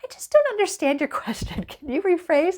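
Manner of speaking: chirpy canned bot reply, mocking; mock chatbot. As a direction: parody the unhelpful chatbot. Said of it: "It was like".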